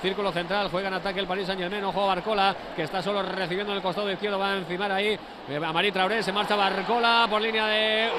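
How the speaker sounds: rapid-fire match call; breakneck play-by-play. Acted. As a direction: rattle off the play at speed. Live play-by-play build-up.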